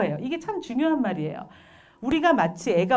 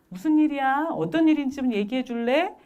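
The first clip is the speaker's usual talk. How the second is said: composed parent's gentle questioning; calm inquiry; 5 semitones higher than usual. Acted. Parent to fighting children, calmly. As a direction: invite the child to explain, higher-pitched. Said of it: "그래서 침착하게".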